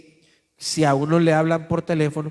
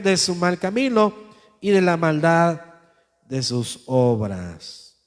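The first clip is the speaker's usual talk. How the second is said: solemn scripture reading. Acted. Reads scripture aloud.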